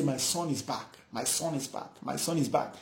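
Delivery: tender murmur. Acted. Father rejoicing, hugging son.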